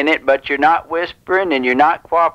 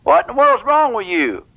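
higher-pitched feigned scolding; mock exasperation; 5 semitones higher than usual. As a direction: scold as if fed up, without shouting. Prank caller feigns exasperation at her.

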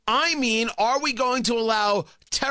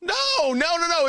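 emphatic denial; 10 semitones higher than usual. Real, not acted. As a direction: shut it down with rising heat. Emphatic rejection.

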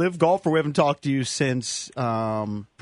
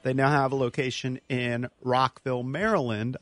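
ad read. Acted. Host reads sponsor ad.

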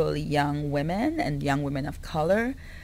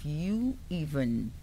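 quiet warning; 3 semitones lower, 3 dB quieter than usual. Retold or imitated. Protective manager turning on screaming onlookers, quiet warning. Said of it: "with this Caribbean woman's look like".

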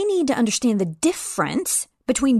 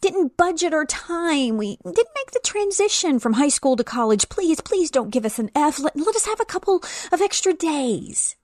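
mock fearful pleading; 5 semitones higher than usual. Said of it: "shaking in fear".

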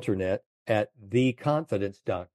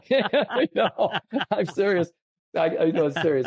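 laughing; 9 semitones higher, 3 dB louder than usual. Real, not acted. Laughing through the telling.

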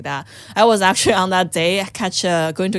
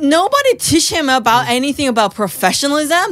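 tag; 6 semitones higher, 3 dB louder than usual. Retold or imitated. Retelling her rant about the man.

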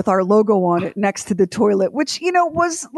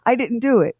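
higher-pitched retold protest of innocence; indignant denial; 4 semitones higher than usual. Wife denies turning off the water, indignant. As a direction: protest it, stressed and affronted.

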